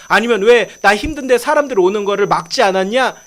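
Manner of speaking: imagined telling-off, moderately forceful; mock scolding. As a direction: nag through a list of pretend complaints. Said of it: "이런 걸로 혼내지 않으셨어요". (나무라는 척하는 말투)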